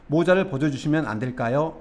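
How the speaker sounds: polite, tentative question; very polite request. Shown as a demonstration. Teacher demonstrating a courteous request to remove a hat, very polite. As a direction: ask deferentially, as a careful favor. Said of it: "이렇게 상당히 공손한 느낌".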